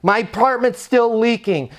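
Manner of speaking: high, protesting resident voice; upset resident complaining. Acted. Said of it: "somebody yells at you".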